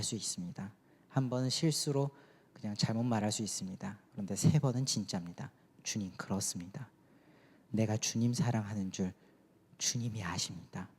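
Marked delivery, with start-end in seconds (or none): 5.8-10.9 softer, sincere confession; earnest, heartfelt. Retold or imitated. Peter answering Jesus, softly and heartfelt. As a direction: answer with your whole heart, quietly. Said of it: "절절하게 진정성 있게 진심을 다해서".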